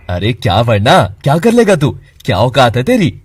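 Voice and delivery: loud, mocking challenge; taunting anger. Friend mocking Keshav's threat, loud taunting. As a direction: sneer the dare at him.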